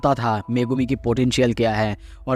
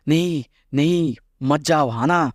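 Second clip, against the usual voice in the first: urgent warning; 4 semitones higher than usual. Acted. Angel warning Hana not to go, urgent plea. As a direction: plead with her to stop, mildly alarmed. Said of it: "बार बार उसे warn करने की कोशिश".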